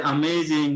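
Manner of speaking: "অ্যামেজিং" with the middle syllable stretched; stressed key word. Shown as a demonstration. Teacher picks out the stressed words for students, stress on "অ্যামেজিং". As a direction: lean on the second syllable of "অ্যামেজিং". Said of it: "যে stress গুলো ওরা দিল".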